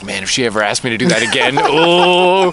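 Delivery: laughing through the words. Real, not acted. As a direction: giggle as you say it. Laughing while telling.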